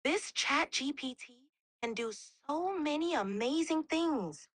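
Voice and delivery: gentle grandmotherly voice to a little one; grandmother to child. Shown as a demonstration. AI playing a grandmother talking to a child, lightly voiced. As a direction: talk like granny showing a grandchild. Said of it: "like a grandmother speaking it to a child".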